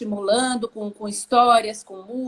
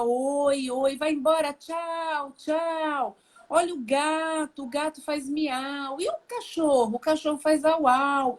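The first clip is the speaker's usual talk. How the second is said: put-on higher, sing-song baby talk; talking to a toddler; 3 semitones higher, slower than usual. Shown as a demonstration. Parent pointing out the cat and dog to a toddler, higher sing-song. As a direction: show the child the animals in a playful parent voice. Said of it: "Chegou no lugar, falar".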